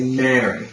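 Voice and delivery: MARY with an open "marry" vowel; full vowel model. Shown as a demonstration. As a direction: say Mary with rounded lips. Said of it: "Say Mary".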